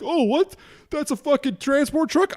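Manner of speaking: very high, silly put-on voice; mocking clueless driver. Podcaster imitating drivers who cut off trucks, high mocking voice. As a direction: play an oblivious driver in a squeaky mock voice.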